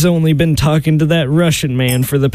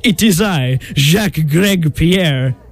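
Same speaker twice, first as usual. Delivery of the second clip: slow, put-on French accent. Suitor introducing himself as Jacques, put-on French accent. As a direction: announce yourself with a mock French accent. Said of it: "you had a French accent".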